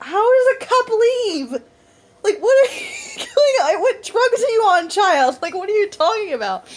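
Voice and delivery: high, loud, laughing disbelief; hammed-up baffled outburst; retold exasperation. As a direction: squeal it in mock outrage.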